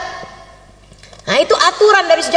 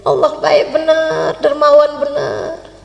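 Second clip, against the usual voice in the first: slow, lingering praise; savored devotional musing; grateful wonder; slower than usual. Acted. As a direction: stretch the last words in awed thanks. Traveler muses on God's goodness.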